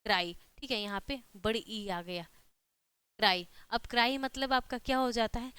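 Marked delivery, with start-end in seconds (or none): 0.1-0.3 "क्राई" as one syllable, kraai; pronunciation of क्राई. Shown as a demonstration. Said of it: "इसका क्या उच्चारण होगा". 3.2-3.5 "क्राई" as one syllable, kraai; pronunciation of क्राई. Shown as a demonstration. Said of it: "इसका क्या उच्चारण होगा".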